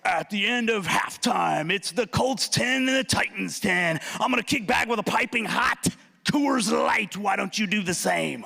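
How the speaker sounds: a hint of a TV sports announcer; mock play-by-play pitch, lightly voiced; football announcer. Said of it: "a football announcer go".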